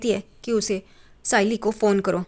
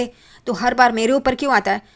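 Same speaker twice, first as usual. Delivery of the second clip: angry retort; 3 semitones higher, 6 dB louder than usual. Retold or imitated. Tejas snaps during family fight.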